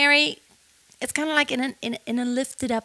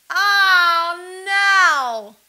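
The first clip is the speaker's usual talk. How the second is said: higher, louder, tearful oh no; almost crying; 8 semitones higher, 5 dB louder than usual. Shown as a demonstration. Vocal coach acts near tears for students. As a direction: sound like you're about to cry. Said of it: "what if you were really almost crying".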